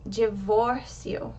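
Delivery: divórcio with the O stressed, said slowly; careful teacher's model of divórcio, weight on the O; accented O. Shown as a demonstration. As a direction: stretch and lift the middle syllable of divórcio. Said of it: "The O in the middle of that word has the accent".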